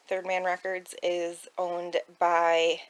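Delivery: throat tickle, about to cough. Real, not acted. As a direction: speak with a scratchy throat. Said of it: "I can't stop coughing".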